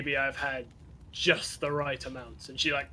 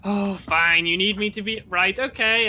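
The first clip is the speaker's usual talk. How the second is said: much higher, louder fuss; exasperated companion; 5 semitones higher, 7 dB louder than usual. Acted. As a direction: sigh at his latest mess.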